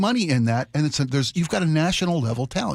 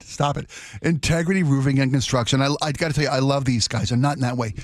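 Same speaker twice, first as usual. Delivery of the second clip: ad read. Acted. Live ad read.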